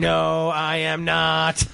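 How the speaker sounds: slow flat robot voice; deadpan robotic reply. Pretend. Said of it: "Nice robot voice".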